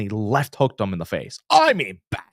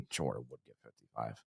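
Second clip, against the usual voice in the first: laughing repeat; 18 dB quieter than usual. Retold or imitated.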